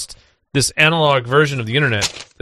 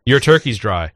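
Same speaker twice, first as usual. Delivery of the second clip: dad impression; 3 semitones lower than usual. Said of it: "an impression of my father is just".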